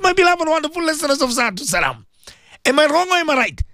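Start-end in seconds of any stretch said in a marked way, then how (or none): 0.0-2.0 raised, fervent sermon voice; impassioned preaching. Acted. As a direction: preach it out to the radio listeners. Radio preacher exhorting listeners.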